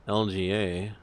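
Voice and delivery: ordinary talk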